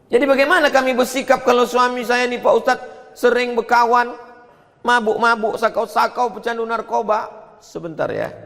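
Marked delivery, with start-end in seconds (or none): 0.1-7.3 lightly acted wife, pitched well up; worried wife's question. Wife asks the ustadz about her husband's friends, high mock pleading. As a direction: put a wife's plea to the preacher in a higher voice.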